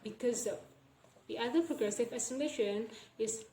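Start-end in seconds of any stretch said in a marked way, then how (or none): 0.0-0.6 "because of" linked as one word; "because of" said as be-cuz-uv; joined sounds. Shown as a demonstration. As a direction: slide "because" into "of" with no gap. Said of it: "The of sounds will be joined".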